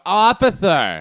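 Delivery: put-on slow, loud drunken call; a drunk hailing a cop; mock drunk. A drunk hails a police officer, loud and slow. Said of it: "They're like".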